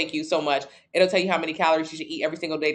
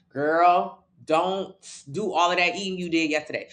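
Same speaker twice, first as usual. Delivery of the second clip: mock scolding self. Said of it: "Be good, meaning".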